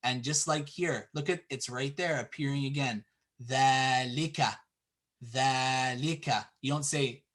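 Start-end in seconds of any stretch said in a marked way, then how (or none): 3.4-6.4 dhalika with the first a held long; long vowel. Shown as a demonstration. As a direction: stretch "dhaa" in dhalika. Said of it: "really fast like that".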